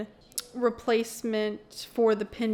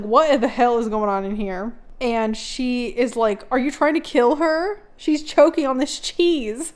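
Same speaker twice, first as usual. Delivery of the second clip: angry yelling; 7 dB louder than usual. Retold or imitated. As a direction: yell at them in outrage. Sister busts through door.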